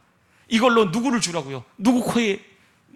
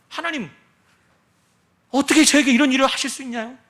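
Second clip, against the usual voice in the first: mock lament; 4 semitones higher than usual. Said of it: "라는 탄식이".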